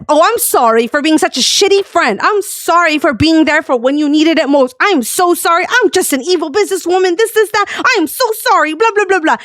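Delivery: high, mocking singsong apology; sarcastic apology. Streamer throwing a friend's words back, sarcastic high apology. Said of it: "I was basically saying the same shit".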